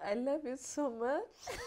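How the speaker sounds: slow, tearful I love you; pushing the words out through emotion; emotional. Real, not acted. A singer tells her partner, slow and tearful. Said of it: "I'm so emotional".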